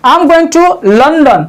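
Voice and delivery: very slow, drawn out example. Shown as a demonstration. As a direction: say each word slowly and clearly. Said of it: "second one". (धीरे-धीरे, साफ़ उदाहरण)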